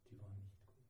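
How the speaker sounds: soft, heavy echo of the line; quiet repeat. Real, not acted. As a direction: drop the voice to almost nothing on the repeat.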